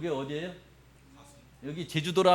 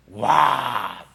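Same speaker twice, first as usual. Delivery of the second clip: awed; 7 semitones lower than usual. Acted. Awe at Iguazu falls.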